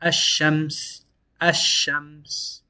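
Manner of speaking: Ash-Shams with a doubled sheen, no L; model Ash-Shams. Shown as a demonstration. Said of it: "And we have".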